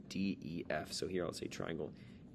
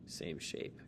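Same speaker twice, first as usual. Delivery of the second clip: soft whisper of "Same shape"; 4 semitones lower, 9 dB quieter than usual. Shown as a demonstration. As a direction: breathe "Same shape" under the breath. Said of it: "checkbox note to self".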